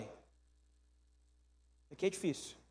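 soft, drawn-out, very slow; quiet and slow. Real, not acted. Pastor to congregation: soft, very slow aside. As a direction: let it sink in gently. Preacher sobers on hard point.

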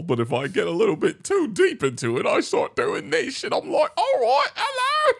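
cartoon voice sliding into British, climbing very high; bad British accent. Shown as a demonstration. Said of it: "I do a bad British accent".

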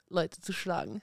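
joking with a laugh in the voice. Real, not acted. Boxer joking that she likes hitting people, laughing. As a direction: tease it out while laughing.

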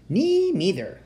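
high, piping little squeak of a voice; tiny mouse voice. A narrator's reading. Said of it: "said a tiny voice".

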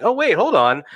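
as if it just dawned on him; startled realization, acted out; sudden realization. Retold moment of realization.

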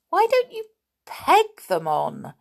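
put-on girl annoyed at a careless washer; annoyed call. A narrator's reading. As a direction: call out, irritated at the silliness. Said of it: "quite annoyed".

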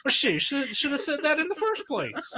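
high-pitched, laughing country comeback; hammed-up country accent, cracking up; mock country accent. Playing country caller in skit, laughing.

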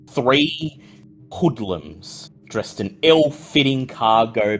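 slow, even scene setting; game master narration. Acted. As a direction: paint the scene for the players.

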